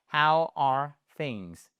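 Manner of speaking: "How are things" said very slowly, each word drawn out; slow it right down for learners to copy; careful slow-motion model of "How are things"; slow repeat. Shown as a demonstration. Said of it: "allez-y".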